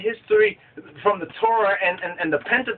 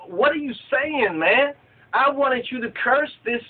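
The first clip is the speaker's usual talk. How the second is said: higher-pitched mock indignation; vexed; 6 semitones higher than usual. Balak confronts the man he hired to curse, vexed. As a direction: act out an annoyed paymaster's complaint. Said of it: "He's vexed. He's like".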